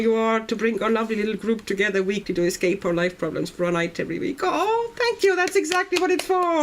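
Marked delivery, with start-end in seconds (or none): 4.4-6.6 high, sweet mock thanks; high-pitched pretend flattered thanks; mock gushing. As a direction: gush back at yourself playfully. Mock-gushing reply to own praise.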